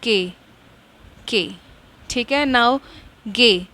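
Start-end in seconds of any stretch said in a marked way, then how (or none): 3.3-3.7 गे said as a short "gay" syllable, not the English "G"; steno letter name. Shown as a demonstration. Teacher showing students the steno sound of G, plainly. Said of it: "हम steno में इसको गे pronounce करेंगे".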